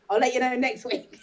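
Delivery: mock message said through a laugh. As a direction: read it out while laughing. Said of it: "it says".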